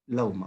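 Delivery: لوما with the vowel between waw and hamza; in-between vowel demo. Shown as a demonstration. Teacher showing students the in-between sound. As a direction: say لوما halfway between lauma and loma. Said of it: "تھوڑا سا حمزہ اور واو کو intermediate کر کے".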